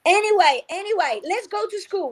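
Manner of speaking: put-on storytelling to children. Shown as a demonstration. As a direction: move the story on brightly. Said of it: "made-up story".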